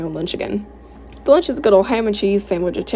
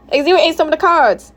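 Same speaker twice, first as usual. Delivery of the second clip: high, loud complaint; indignant mother, pitched up; upset exclaiming; 8 semitones higher, 5 dB louder than usual. Acted. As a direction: exclaim in outrage at what was done. Mom upset about eaten cards.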